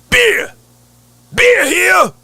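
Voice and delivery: high, loud mock-angry beer seller; angry vendor's scream. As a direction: imitate a stadium vendor screaming in anger. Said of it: "he's screaming it angrily".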